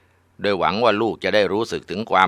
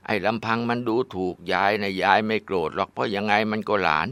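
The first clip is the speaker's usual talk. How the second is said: put-on old grandma warning; 3 semitones higher than usual. Grandma warns her daughter.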